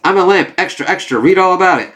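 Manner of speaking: dazed drugged voice. Acted. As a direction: play her high on Kraven's darts. Drugged Kamala's rambling.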